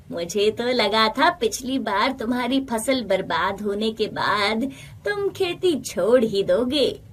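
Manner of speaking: cunning villager voice, lightly put on; sly friend. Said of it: "Shyam बहुत कपटी स्वभाव का था".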